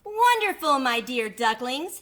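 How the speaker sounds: very high, loud joy; mama duck overjoyed her babies jumped; delighted mama duck. Acted. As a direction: burst with pride.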